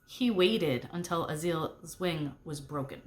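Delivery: slow and weighty, letting it sink in; slow, meaningful reveal; said significantly. Acted. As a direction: lean on each word for effect. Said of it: "I said significantly".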